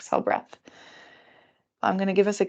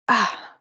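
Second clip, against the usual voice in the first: sore-back groan; 3 semitones higher, 3 dB louder than usual. Real, not acted. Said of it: "I sound like an old lady".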